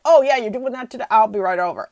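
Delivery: mock eager neighbor; cheery neighbor. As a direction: toss it off like a happy neighbor. Neighbor offering help, acted quote.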